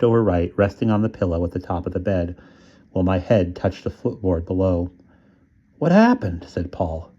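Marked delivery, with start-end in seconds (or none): 5.8-6.4 high, eager question; friend asking. Acted. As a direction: ask it quick and curious. Friend on the phone.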